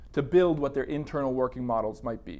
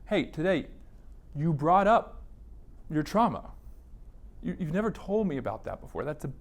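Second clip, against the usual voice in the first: gentle therapist debrief. Shown as a demonstration. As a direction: warmly thank the client for sharing. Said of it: "doing just that".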